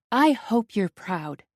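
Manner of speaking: snapping. Acted. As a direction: bite off each word. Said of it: "I snap".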